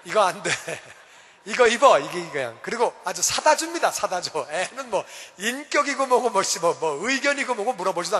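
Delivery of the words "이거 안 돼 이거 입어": bossy mom. Retold or imitated. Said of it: "한국은요".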